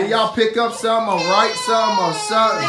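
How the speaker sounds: teary, pleading voice; near tears. Real, not acted. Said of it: "I'm about to start crying".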